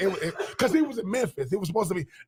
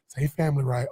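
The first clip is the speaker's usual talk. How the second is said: mock publicist; 6 semitones lower than usual. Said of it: "his publicist is going".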